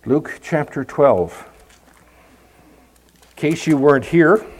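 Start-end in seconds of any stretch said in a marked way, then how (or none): 0.0-1.5 Luke chapter twelve said slowly and deliberately; repeating the reference slowly to the congregation. Shown as a demonstration. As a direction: spell out Luke chapter twelve for the page-turners. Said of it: "Turn, if you would".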